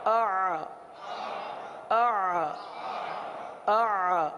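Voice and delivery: اع pressed from the throat with a squeeze; throaty ع. Shown as a demonstration. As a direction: tighten the throat on اع. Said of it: "عین کی ادائیگی".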